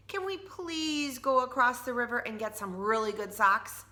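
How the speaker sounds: a hint of an eager little girl asking her mom; young Tina begging her mom for better socks, pleading; Tina's voice. Child voice of Tina.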